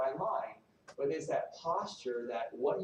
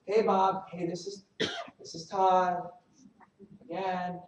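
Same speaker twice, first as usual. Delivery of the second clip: starts as a chirpy message, then climbs higher and louder into a frustrated yell; a needy caller who loses it and ends up shouting; the worst voicemail, from cheery to fed-up shouting; frustrated voicemail building to a shout; 5 semitones higher, 9 dB louder than usual. Acted. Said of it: "here's the worst voicemail".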